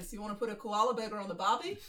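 quick Aussie stock phrase; Australian accent. Shown as a demonstration. Listing warm-up phrases for accents, fast Australian accent. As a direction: rattle it off in Australian.

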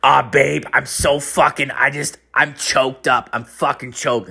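a hint of a complaining partner on the line; upset girlfriend. Girlfriend venting to him by phone, lightly imitated. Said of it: "you hear the other line".

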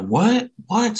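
high, loud, stunned question; retold shock, voice leaping up; shocked disbelief. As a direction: shoot up in pitch with alarm. Told of nana's death, disbelief.

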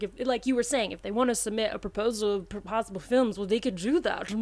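a hint of a character voice, slipping into mumbles; mildly put-on voice of a student's defender; lightly voiced John Kane. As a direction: lightly imitate him, trailing off into mumbling. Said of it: "That's his voice".

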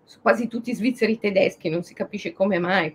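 ordinary delivery

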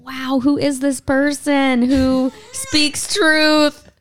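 impressed. Retold or imitated. Reader recalls her reaction to the tweet with slow awe. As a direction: draw it out, half-joking wonder. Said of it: "And I thought".

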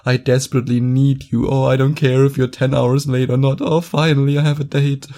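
a hint of a clingy, grateful man; mock needy guy. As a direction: whine it like a guy begging for a date. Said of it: "This screams".

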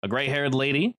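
descriptive scene-setting read; storyteller voice painting a run-down laundromat; game master narration. A narrator's reading.

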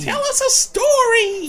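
put-on very high, loud child plea; kid voice. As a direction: beg like an excited child. Children begging for story.

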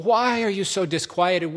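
rising exasperation. Acted. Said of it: "Or Psalm forty-two and forty-three".

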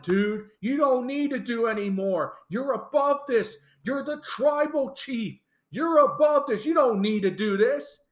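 imitated pleading. Wrestler talking his tribal chief out of it, pleading. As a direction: plead with him, pitch climbing as you go. Acting Sami pleading with Roman.

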